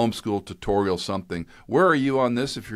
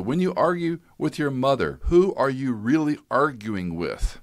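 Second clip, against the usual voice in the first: stern dad; 7 semitones higher than usual. Retold or imitated. Dad confronting arguing son.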